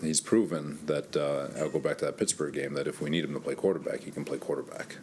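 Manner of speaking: winded, short of breath. Real, not acted. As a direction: talk while catching your breath. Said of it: "I'm a little winded".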